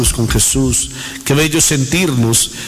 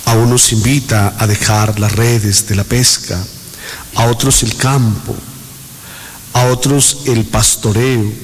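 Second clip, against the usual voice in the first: prayer. Real, not acted. Recites a prayer to the Holy Spirit.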